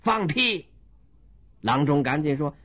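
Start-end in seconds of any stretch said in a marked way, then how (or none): 0.0-0.7 1 mild curse. Acted. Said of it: "骂道".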